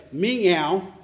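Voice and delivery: half-hearted spoken meow; bad cat impression. Pastor imitating the cat that sounded fake, half-hearted meow. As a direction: imitate a poor cat impersonator, barely meowing. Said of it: "sounded like somebody doing a bad impression of a cat".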